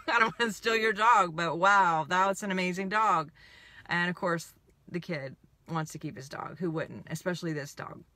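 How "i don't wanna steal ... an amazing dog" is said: admiring enthusiasm. Retold or imitated. Admiring a dog to its owner, enthusiastic. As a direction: gush over it, with emphasis on wow.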